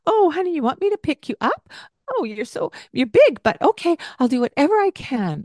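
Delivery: high, fast, sugary mock parent voice; a hammed-up fussing mom; doting parent. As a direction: coo like a parent rushing to rescue. Mocking an overeager doting parent.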